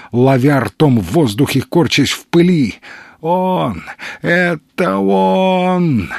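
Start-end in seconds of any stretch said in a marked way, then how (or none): 3.2-6.1 slow, winded words forced out; gasping for breath. A narrator's reading. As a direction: squeeze each word out through lost breath. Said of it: "Слова никак не хотели произноситься".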